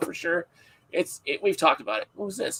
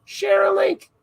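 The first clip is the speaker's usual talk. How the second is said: high, loud, unplaceable mock Jersey accent; hammed-up tough-guy Jersey City accent; pitched-up pretend Jersey accent, pushed loud; put-on accent; 11 semitones higher, 8 dB louder than usual. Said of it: "I don't know what that accent was".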